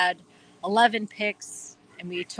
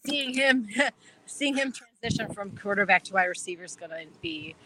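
laughing. Real, not acted. Laughs at his own accent.

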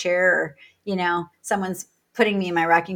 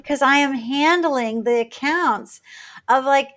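rising pitch as she defends herself, each line higher; exasperated retort; 6 semitones higher, 5 dB louder than usual. Retold or imitated. Defending her career to a critic, exasperated and climbing. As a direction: voice climbing higher, slowed and louder.

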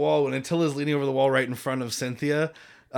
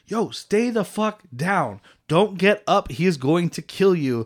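slow, emphatic plea, pitched up; acted urgent warning; 4 semitones higher, slower than usual. Retelling a plea to the fighter on the ground, urgent and emphatic. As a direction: warn him word by word, retelling it.

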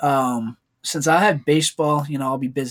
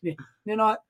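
higher mock Asian accent, laughing through it; 6 semitones higher than usual. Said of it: "his Asian accent he puts on".

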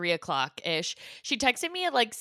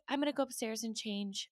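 calm; 3 semitones higher, 12 dB quieter than usual. Retold or imitated. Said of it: "she was so calm".

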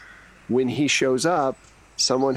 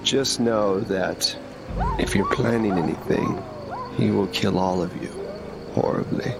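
menacing wolf voice. Acted. Wolf threatens party.

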